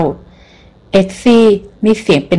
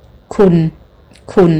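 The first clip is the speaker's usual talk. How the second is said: hesitant, lingering คุณ; the American trailing his voice, not knowing her name, drawn out; drawn-out call; much slower than usual. A narrator's reading. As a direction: stretch each คุณ out, searching for her name. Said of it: "เขาทอดเสียงแสดงว่าอยากจะเรียกชื่อเธอ".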